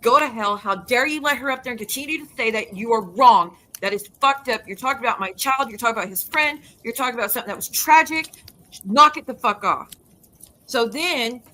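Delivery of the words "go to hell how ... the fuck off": loud, furious retold rant at the host; angry rant. Retelling her own livestream rant at the host, loud and furious. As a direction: tell her off hard, voice raised. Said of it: "and I'm saying".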